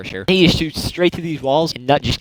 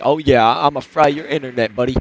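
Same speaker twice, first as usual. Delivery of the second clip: lightly imitated slurry pothead; mock a stoner gamer making a threat; a hint of generic slurry pothead. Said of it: "just pothead voices like you've ever heard".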